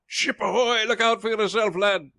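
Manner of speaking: shouted warning. A narrator's reading. Joe warns Ralph of the ship, shouting. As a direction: yell the warning across the water. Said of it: "he shouted".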